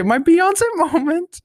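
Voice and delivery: high, slow, laughing quip about a singer; drawn-out laughing diva moment; laughing diva line. Retold or imitated. Quoting her own diva text.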